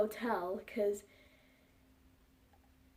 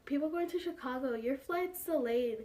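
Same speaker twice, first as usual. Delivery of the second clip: gate announcer with giggles. Retold or imitated. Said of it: "she's like".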